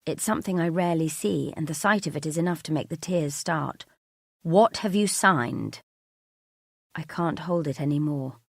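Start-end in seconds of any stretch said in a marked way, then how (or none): 4.4-5.8 slow, loud demand; each word pressed out in anger; furious. Acted. Mark demanding answers from his wife, furious. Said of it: "This is Mark at his most furious".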